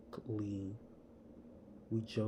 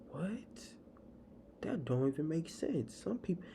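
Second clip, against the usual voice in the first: stunned whisper; 6 semitones higher than usual. Real, not acted. Reacts in disbelief to critics.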